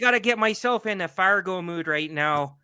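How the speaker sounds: light Fargo-style Minnesota lilt; Minnesota accent. Shown as a demonstration. Podcaster warming up on request, Minnesota accent. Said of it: "Do Minnesota fast".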